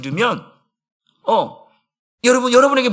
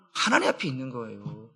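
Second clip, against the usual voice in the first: 하나님 앞에 있는 거예요 answered much lower and softer, falling; quiet answer; 9 semitones lower, 11 dB quieter than usual. Shown as a demonstration. Pastor answering his own question quietly and firmly. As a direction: settle it with a soft, low affirmation.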